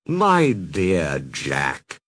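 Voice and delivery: Santa's voice. Acted. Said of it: "said Santa".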